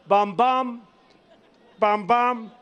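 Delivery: head-turning bum bum, imitating her reading; mock teleprompter glances. To the rally crowd, mocking her teleprompter reading, bum bum. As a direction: mimic her looking from one prompter to the other. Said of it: "She's got two, a teleprompter here and there".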